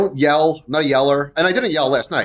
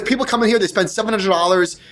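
higher-pitched, indignant retort in mild imitation; retold irritated comeback, pitched up; imitating mad manager; 6 semitones higher than usual. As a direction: mimic a manager getting mad at customers. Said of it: "He was, like, getting mad at us".

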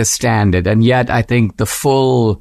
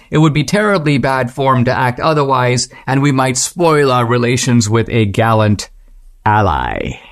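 prim Western voice fading from pitched-up to hushed; mock Westerner; 2 semitones higher than usual. Westerner refusing the Russian Liberation Army, mock Western accent fading. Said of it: "kind of mimicked dialogue here, Solzhenitsyn speaking as a Westerner".

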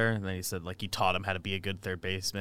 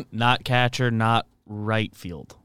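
laughing; 8 dB louder, much slower than usual. Real, not acted. Laughing while listing positions.

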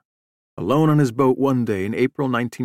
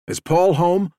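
raised, mildly urgent question; agitated; 7 semitones higher, 4 dB louder, slower than usual. A narrator's reading. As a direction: ask it with contained alarm, higher pitched. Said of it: "never heard him so agitated".

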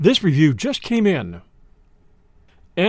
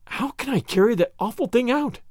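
high, shuddering moan of disgust; 6 semitones higher than usual. A narrator's reading. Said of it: "moaned Anne with a shudder".

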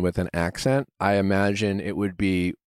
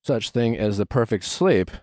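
podcast ad read. Acted. Host pitching Brooklinen sheets to listeners, polished ad read. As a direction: sell it like a podcast host endorsing a sponsor.

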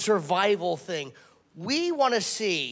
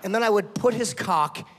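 low and sultry; 5 semitones lower, 5 dB quieter than usual. Acted. Seductive low description.

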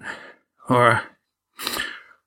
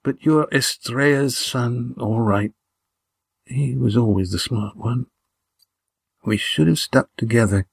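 higher, halting, strained confession; weak whispering; 5 semitones higher than usual. A narrator's reading. Dying Gar confiding in Lindy and Estrella, weakly whispered. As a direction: reminisce with effort, pausing between phrases. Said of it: "he whispered".

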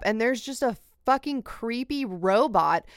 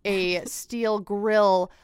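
slow, hammed-up poetic narration; flowery storyteller; slower than usual. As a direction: stretch out every flowery phrase slowly. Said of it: "That was word salad".

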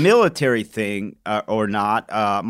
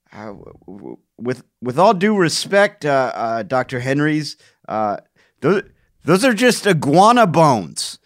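hesitant sceptical scientist. Acted. Colleague doubting Doctor Henry's find, hesitant role-play. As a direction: politely stammer into a mock challenge. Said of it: "this is how that went down".

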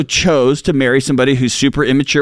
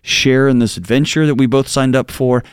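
a frightened wife opening up; scared confession; 4 semitones lower than usual. Retold or imitated. Wife confessing fear to her husband, low and scared.

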